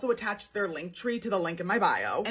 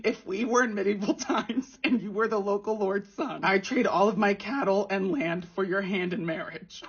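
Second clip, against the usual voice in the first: reading message laughing. Retold or imitated. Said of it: "this was his opening message".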